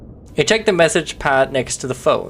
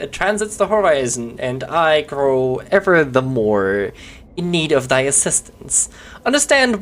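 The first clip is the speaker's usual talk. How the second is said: lightly voiced old-fashioned landlord, formal; archaic innkeeper; slower than usual. Innkeeper character asks lodger to sign the paperwork, formally. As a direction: speak like a stiff medieval innkeeper. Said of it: "When did you start talking like this?".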